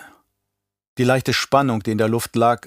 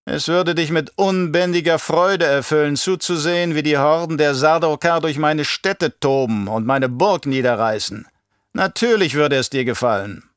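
lightly voiced taunting baron, raised pitch; spöttelnder Baron; 5 semitones higher than usual. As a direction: tease him as a haughty baron. (leicht angedeutete Baronstimme, höhnisch)

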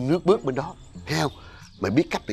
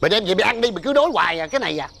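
raised-pitch testy dismissal; irritated scolding; 4 semitones higher, 3 dB louder, faster than usual. Acted. Father sending the unwanted fruit away with his child, irritated. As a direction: reject it with irritation. Father rejects what was bought.

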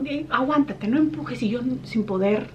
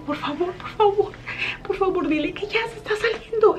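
high, begging please after please; higher desperate plea in labour; desperate pleading; 11 semitones higher than usual. Retold or imitated. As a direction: beg her to go get help now. Begging aunt to call nurses.

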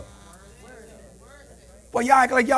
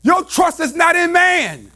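higher, slow, weighty declarations; slow emphatic preaching; 4 semitones higher, slower than usual. Acted. Preacher slowing down to press the point. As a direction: lay each word down slowly.

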